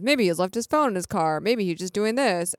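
mock pleading for another explanation; making excuses. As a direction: offer excuse after excuse, imitating someone. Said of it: "trying to make excuses".

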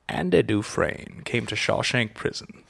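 slow, lightly done Morgan Freeman voice; a hint of Morgan Freeman narrating, slowly; Morgan Freeman impression. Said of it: "my Morgan Freeman impression".

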